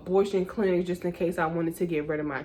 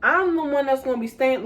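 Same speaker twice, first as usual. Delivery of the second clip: exasperated rant; 5 semitones higher than usual. Retold or imitated. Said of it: "I'm like".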